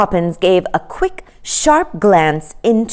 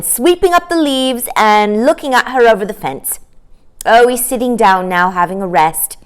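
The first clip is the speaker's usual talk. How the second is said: a lightly voiced child, a bit higher; eager child; 6 semitones higher, 5 dB louder than usual. Children at the window report to each other, lightly childlike. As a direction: chatter like a curious kid.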